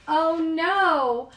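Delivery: high, loud oh no before a sneeze; high alarmed gasp. A narrator's reading. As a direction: feel the sneeze coming. Reader acting the sneeze build-up.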